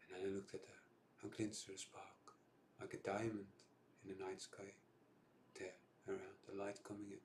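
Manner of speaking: subdued freestyle film monologue with long pauses; down, raw monologue. Acted. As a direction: let each war image land, then pause. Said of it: "it's a bit down and raw".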